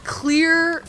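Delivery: imitating a careful, over-enunciated speaker; lightly mock someone trying to sound educated; measured, mock-articulate delivery; mock well-spoken. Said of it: "trying their damnedest to sound as well-spoken".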